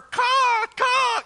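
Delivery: high loud gull cawing; seagull caws. Retold or imitated. Preacher mimicking seagulls making a mess, high cawing. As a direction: squawk like a gull again. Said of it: "That is the picture of this Greek word".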